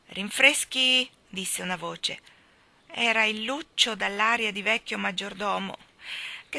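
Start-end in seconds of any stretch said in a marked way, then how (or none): 0.1-1.1 loud, slow repeat of "rinfreschi", less high; the butler calls it once more. Acted. Maggiordomo annuncia i rinfreschi. (ripetizione lenta e forte)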